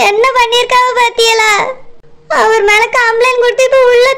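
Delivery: weepy, whimpering complaint; tearful. Acted. Wife lamenting to sister-in-law, crying. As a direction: lament through tears. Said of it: "சரிம்மா, அழாத".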